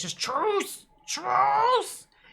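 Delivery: very high, rasping, gravelly croak, "Truce" drawn out. A storyteller voices a boggard holding up its mangled hand, gravelly, croaky creature voice. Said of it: "real, like, gravelly, croaky voice".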